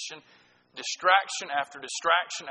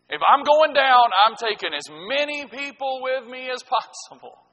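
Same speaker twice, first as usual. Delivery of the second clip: spiteful boast; 8 semitones higher, 6 dB louder than usual. Retold or imitated. Voicing spiteful person.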